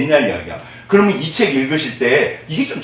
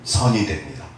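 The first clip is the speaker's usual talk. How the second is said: lead-in response; 12 semitones lower, 6 dB quieter than usual. Shown as a demonstration. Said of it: "자, 저를 따라해 보시죠".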